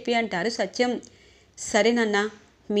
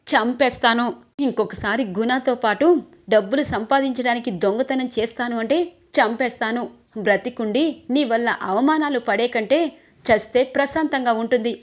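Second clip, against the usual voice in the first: louder, hard furious threat; 3 dB louder than usual. Acted. Sister threatening the brother who stole, furious and loud. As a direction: threaten him like you mean it.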